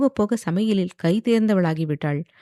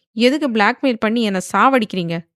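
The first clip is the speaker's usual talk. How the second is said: higher, louder exasperated question; irritated; 4 semitones higher, 4 dB louder than usual. Acted. Wife snapping at husband over blackmail, exasperated and loud. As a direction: snap back in annoyance. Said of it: "என்று எரிச்சலாக கேட்டாள்".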